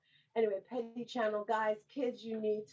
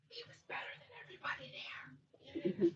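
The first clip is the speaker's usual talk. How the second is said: softer, higher whispered aside; 6 semitones higher, 7 dB quieter than usual. Acted. Host confiding to the audience in a whisper. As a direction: let them in on a secret in a whisper.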